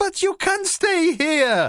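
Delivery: very high, sharp little yelp. Zoe answers a dragon that crashed into her grandad's shed; yelping. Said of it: "yelped Zoe".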